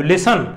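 "ਲਿਸਨ" stressed at the start, falling away after; weight on the first syllable of "ਲਿਸਨ", weak ending. Shown as a demonstration. Teacher has learners hear the weak ending, "ਲਿਸਨ" front-stressed. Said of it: "ਮੂਹਰਲੇ 'ਤੇ ਜ਼ਿਆਦਾ ਜ਼ੋਰ ਪੈ ਰਿਹਾ".

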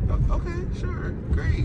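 high mock-agreeable sarcasm; sarcastic. Real, not acted. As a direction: fake cheerful agreement. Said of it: "it's very sarcastic".

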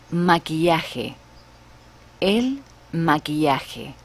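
maquillaje as mah-kee-YAH-heh, slow; el maquillaje with a Spanish j; Spanish pronunciation. Shown as a demonstration. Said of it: "For example".

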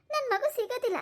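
high-pitched, anguished cry of hopelessness; distraught despair. Acted. Mother fears baby is gone.

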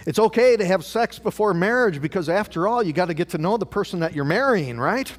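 tempting inner voice. Acted. Preacher voicing tempting inner voice.

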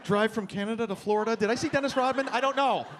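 lightly voiced squinting Columbo; hungover Columbo. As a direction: piece it together like a confused detective. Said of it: "like a hungover Columbo going".

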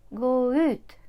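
corrected stress on ut. Shown as a demonstration. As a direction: go ut with ut clearly stressed. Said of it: "Завжди наголос на оці частинки".

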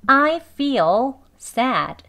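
I feel sad, very slow and loud; drawn-out textbook sentence; slow careful reading. Shown as a demonstration. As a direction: spell the sentence out slowly. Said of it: "문장으로 보면요".

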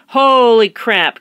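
hammed-up teacher surprise; mock astonishment. Real, not acted. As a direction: gasp it out like it's shocking news.

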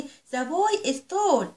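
put-on each word drawn out slowly for young learners; slow teaching read. Shown as a demonstration. Teacher reading English slowly to her little pupils. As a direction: read it slow and clear for the children.

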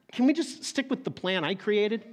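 rising, bargaining question; pleading. Acted. Abraham asking God to keep his plan, pleading. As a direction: ask it like a hopeful plea. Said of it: "That's basically what he's saying".

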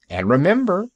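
warning doctor. Acted. Doctor warns the pirate.

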